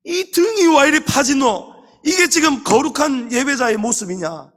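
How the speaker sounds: thundering rebuke. Retold or imitated. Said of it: "호통을 치면요". (장로가 성도를 호통치듯 큰 소리로 꾸짖는 목소리)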